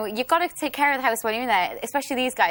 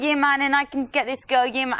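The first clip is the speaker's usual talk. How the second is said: cocky lad; 3 semitones higher than usual. Retold or imitated. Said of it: "he rates himself higher than he actually is".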